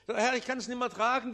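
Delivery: anguished plea to God; urgent outcry. Acted. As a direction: push it out in a rush, pleading. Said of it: "repeated lament, second take".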